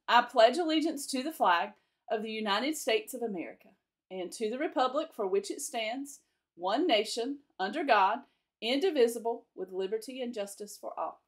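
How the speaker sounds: steady classroom recitation, one phrase at a time; pledge recital. Acted. Teacher leading the class in the flag pledge, measured recitation. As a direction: lead the children through the pledge.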